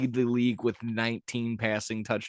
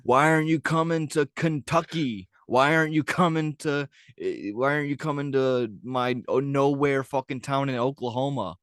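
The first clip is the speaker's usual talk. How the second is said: mock whiny fan; 3 semitones higher than usual. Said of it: "It's just like".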